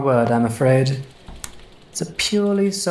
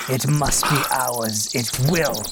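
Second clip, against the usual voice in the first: obsessed; slower than usual. Acted. Graverobber vows to his companion the prize is theirs, slow obsessive vow. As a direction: savour each word like a dark oath.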